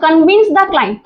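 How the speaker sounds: very slow, word by word; drawn-out dictation of the phrase. Shown as a demonstration. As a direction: dictate it for students to write. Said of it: "teacher dictating slowly".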